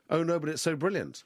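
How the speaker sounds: high-pitched mock gushing fan; exaggerated, swooping praise in mockery. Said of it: "people still go".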